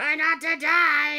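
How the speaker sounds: shrill, very high, loud, drawn-out shriek. Retelling how he delivered the line, the speaker screams it like the Joker. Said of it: "he was screaming like this".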